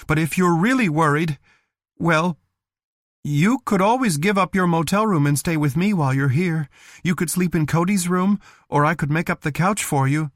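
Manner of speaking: stronger voice. Acted. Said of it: "Her voice sounded stronger now".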